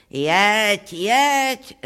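understated shout of a command; yelled. A narrator's reading. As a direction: call out a mock bellow. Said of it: "zařval".

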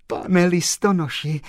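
high, loud grateful address; overjoyed. Acted. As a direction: call out brimming with joy. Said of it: "oči se jí zalily slzami radosti".

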